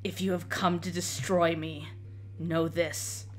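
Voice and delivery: low, grim knight voice; doomed undead knight. Acted.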